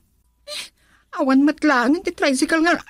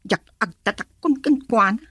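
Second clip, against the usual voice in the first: tearful, voice catching low; crying; 4 semitones lower than usual. Acted. Daughter confides to mother tearfully.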